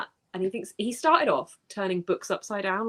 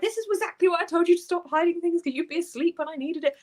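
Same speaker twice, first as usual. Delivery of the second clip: mock scolding; 10 semitones higher than usual. Scolding friend in message.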